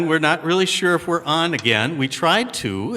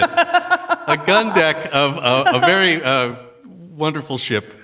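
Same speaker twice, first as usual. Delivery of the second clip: laughing while talking; 2 semitones higher, slower than usual. Real, not acted. Laughing through the correction.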